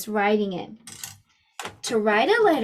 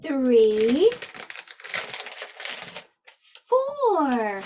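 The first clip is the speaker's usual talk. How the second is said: slow counting along; much slower than usual. Shown as a demonstration. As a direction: count slowly with pauses. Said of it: "Can you help me count?".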